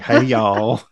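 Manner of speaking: imitated Southern greeting; Southern accent. Mimicking a movie character's greeting, Southern accent. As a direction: put on a Southern accent for the hello. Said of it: "with that Southern accent".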